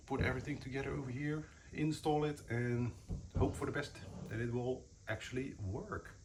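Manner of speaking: slightly winded while crouching; out of breath. Real, not acted. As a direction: talk a bit short of breath. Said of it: "I don't know why I sound out of breath".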